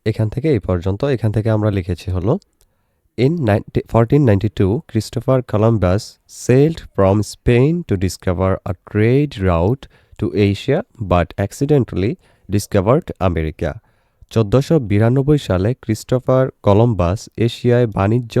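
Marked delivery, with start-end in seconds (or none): 3.2-13.7 slow, word-by-word English read-aloud; measured teacher's model reading; careful pronunciation reading. Shown as a demonstration. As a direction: read it out slowly for students to follow. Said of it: "উচ্চারণ সহ দেখে".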